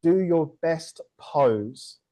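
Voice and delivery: announced prompt. Shown as a demonstration. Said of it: "I'm gonna say".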